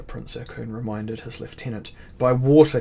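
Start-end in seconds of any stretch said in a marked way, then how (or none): 2.2-2.8 retort. A narrator's reading. Prince retorts to lieutenant.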